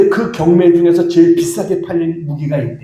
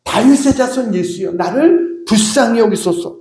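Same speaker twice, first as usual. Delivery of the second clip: higher-pitched plea, restrained in volume; imitated desperate cry; 4 semitones higher than usual. Preacher re-enacts Bartimaeus calling Jesus from desperation, imitated cry. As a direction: act out a desperate call for mercy. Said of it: "절박한 상황에서 나온 그의 외침이었어요".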